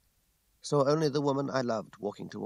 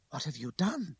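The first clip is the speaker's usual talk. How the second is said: higher-pitched incredulous retort; indignant cry; 5 semitones higher than usual. A narrator's reading. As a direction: throw the question back in outrage. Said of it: "she cried".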